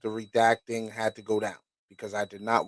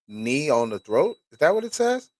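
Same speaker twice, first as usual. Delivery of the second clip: shocked disbelief; 4 semitones higher, 4 dB louder than usual. Real, not acted. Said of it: "got, like, triggered real quick".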